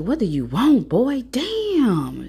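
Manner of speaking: irritated, pitch jumping up; mom with attitude. Retold or imitated. Mom answering her son, imitated with high irritated attitude. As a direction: snap it in imitation of a fed-up mom. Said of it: "like, a little attitude".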